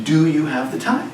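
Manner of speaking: "Do you have the time" climbing sharply on "time"; rising question. Shown as a demonstration. Teacher shows students how a question sounds, pitch rising. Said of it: "The pitch of my voice goes up".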